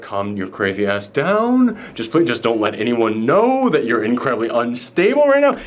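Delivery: a hint of De Niro, low and unhurried. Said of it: "De Niro's just like".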